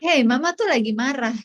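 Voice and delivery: tegur anak dengan tegas, tidak membentak; marah tanpa teriak. Shown as a demonstration. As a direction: contoh teguran ibu yang terkendali. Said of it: "Tanpa perlu teriak". (menegur tegas tanpa berteriak)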